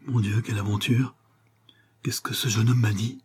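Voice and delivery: hushed, understated murmur to herself. A narrator's reading. Young woman alone in her room after fleeing, murmuring. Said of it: "elle murmura".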